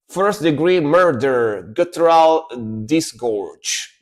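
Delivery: slow, weighty song titles; slow dramatic read. Shown as a demonstration. Reading the song titles to chat, slow and dramatic. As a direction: savour each word of the title. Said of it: "reading song titles dramatically".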